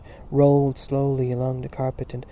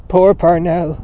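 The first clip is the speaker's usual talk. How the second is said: anguished, higher outcry; loud cry; 4 semitones higher, 12 dB louder, slower than usual. A narrator's reading. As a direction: cry out loudly in grief. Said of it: "he cried loudly".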